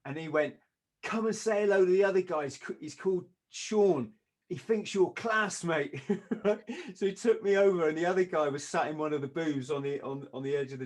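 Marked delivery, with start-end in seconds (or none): 1.0-6.0 loud, high retold enthusiasm; hearty introduction. All Blacks player introducing the doorman to Sean, hearty. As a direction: welcome him over, full of admiration. Kiwi warmly introduces his friend.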